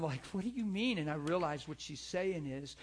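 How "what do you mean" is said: higher and louder, baffled; retold husband, startled by her words; surprised question. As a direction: throw it back at her, caught off guard. Puzzled husband's retort to wife.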